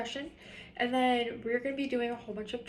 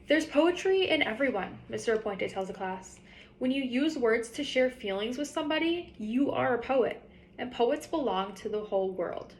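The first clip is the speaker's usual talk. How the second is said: reading a picture book aloud to fourth graders; story reading. Acted. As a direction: tell the story to the class, lively and clear. Teacher reads the story aloud.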